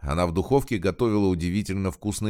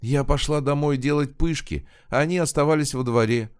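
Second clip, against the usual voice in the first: put-on high-pitched, downcast old woman; dejected; 7 semitones higher than usual. A narrator's reading. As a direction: explain dejectedly in a raised pitch. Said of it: "понуро объяснила женщина".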